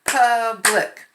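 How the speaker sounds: Public tapped as pub-lic; syllable tapping. Shown as a demonstration. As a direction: tap out Public. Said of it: "Tap 'em again".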